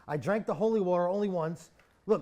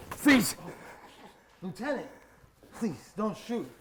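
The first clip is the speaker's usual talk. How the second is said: frightened pleading; 3 semitones higher than usual. Acted. Begging soldier not to shoot.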